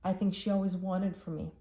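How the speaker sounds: holding back tears; teary. Real, not acted. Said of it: "Sorry that I'm getting so teary about this".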